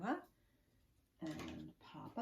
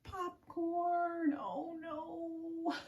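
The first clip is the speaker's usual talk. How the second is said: surprised; 10 semitones higher, much slower than usual. A narrator's reading. Punchline reveal.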